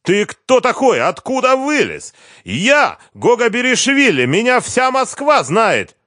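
high, loud outraged yelling; furious fired director; raging boast. A narrator's reading. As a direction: bellow his own importance. Fired boss rages at newcomer.

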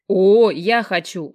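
loud, slow eager exclamation; perked up. Acted. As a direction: jump at the offer eagerly. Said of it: "оживился Жека".

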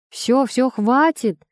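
high loud yell to stop. Acted. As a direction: shout to break up the fight. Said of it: "заорал Толик".

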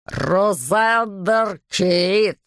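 put-on slow, hissed name in a foreign accent; hissing accent. A narrator's reading. Hunter hissing the enemy's name through the door, slow and menacing. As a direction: drag the name out like a hunting beast. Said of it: "прошипел он с сильным акцентом".

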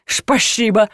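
Шпашиба with sh for every s, mumbled; slushy sh for s. Acted. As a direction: lisp Шпашиба through false teeth. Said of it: "пробормотала я".

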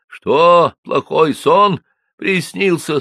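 громкий хриплый голос няньки; спросить хрипло, спросонья. Acted. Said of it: "спросила нянька хриплым голосом". (хрипло спрашивает нянька)

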